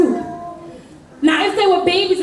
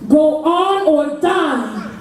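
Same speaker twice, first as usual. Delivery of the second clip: deliberate threat; much slower than usual. Acted. Threat at gunpoint, acted.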